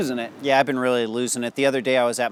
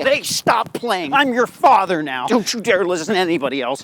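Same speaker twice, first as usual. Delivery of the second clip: put-on yelling at kid; 5 semitones higher, 5 dB louder than usual. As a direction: stretch it out, loud and high, like a deranged dad. Yells at playground kid.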